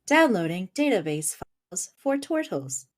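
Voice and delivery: flat machine voice; robot voice. Acted. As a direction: announce it like a computer. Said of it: "I really like your robot voice".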